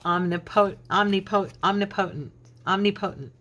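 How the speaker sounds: omnipotent said om-ni-POH-tent with a long O; old wrong omnipotent. Shown as a demonstration. Minister showing viewers her embarrassing wrong way: omnipotent. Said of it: "That's how I pronounced it".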